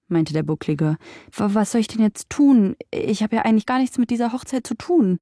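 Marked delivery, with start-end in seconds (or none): 1.4-5.2 higher, stammering plea; frightened pleading. Acted. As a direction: beg helplessly, voice up.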